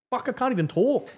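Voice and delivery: talking through a mouthful of whiskey; words blurred by a mouthful of drink; mouth full. Real, not acted. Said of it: "I've had one mouthful of J D".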